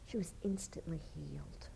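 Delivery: breathy hushed awe; awed whisper. Acted. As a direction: hush it, full of wonder. Preacher hushes for the miracle.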